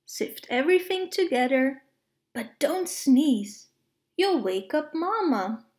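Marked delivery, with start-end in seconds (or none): 2.3-3.7 drawn-out careful warning; slow it down, cautioning. Acted. Slow warning about sneezing.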